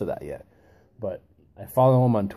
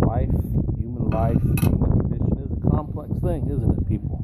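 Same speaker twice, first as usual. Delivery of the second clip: higher, louder rhetorical flourish; emphatic; 4 semitones higher, 6 dB louder than usual. Real, not acted. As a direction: proclaim it to the audience. Emphatic rhetorical address to viewers.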